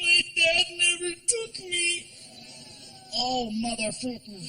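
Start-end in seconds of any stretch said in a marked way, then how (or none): 0.0-2.1 put-on slow, high, small sad boy voice; sad kid. Stepson admitting his dad never took him, slow sad boy voice. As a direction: let it land slow and wounded. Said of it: "Frankie answering".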